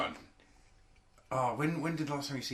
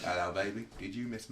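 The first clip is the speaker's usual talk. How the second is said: put-on failed Australian accent; 3 semitones lower than usual. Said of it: "That's not even Australian".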